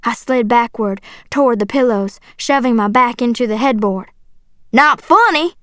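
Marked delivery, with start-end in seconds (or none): 4.7-5.5 high, incredulous yelled question; angry yell. A narrator's reading. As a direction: throw it back, outraged. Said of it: "he yelled".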